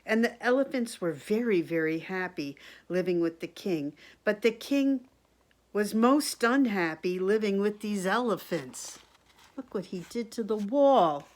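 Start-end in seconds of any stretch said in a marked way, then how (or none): 0.0-9.0 projected, animated story reading; storybook read-aloud. A narrator's reading. Reader to children about the king and his wise men, storybook read-aloud. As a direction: read it out clearly for little listeners.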